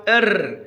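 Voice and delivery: إر as the bare sound of ra; letter sound demo. Shown as a demonstration. Teacher showing how ra is pronounced, إر said in isolation. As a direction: sound out إر on its own. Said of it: "كيف نلفظها؟".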